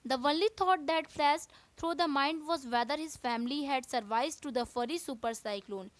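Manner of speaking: slow, careful textbook reading; teacher reading the chapter to students, slow and deliberate; reading aloud. Acted. Teacher reading the English lesson to class, slowly.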